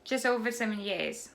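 quick, run-together English question; fast. Shown as a demonstration. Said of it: "บุ๋มจะพูดทุกประโยคเลยแบบเร็วๆ". (พูดเร็วๆ รวดเดียว)

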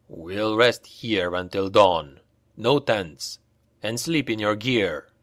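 curt, slow orders; brisk sergeant. Acted. Vert ordering the party, lightly voiced curt command. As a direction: lay down the orders flatly. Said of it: "Vert dismounted briskly".

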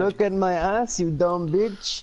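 slow mock Mexican accent; trolling in a Mexican accent. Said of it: "you said that in a Mexican accent".

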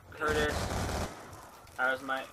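lightly put-on American accent. Shown as a demonstration. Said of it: "American accent".

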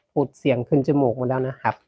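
stuffy nasal voice from a cold. Real, not acted. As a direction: talk through a blocked nose.

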